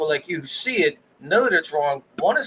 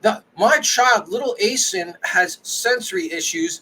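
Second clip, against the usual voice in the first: imitated indignant mom; 6 semitones higher than usual. Mother defending little Asen, imitated indignant mom. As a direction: defend your child in a mock high voice. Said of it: "she's gonna turn around and be like".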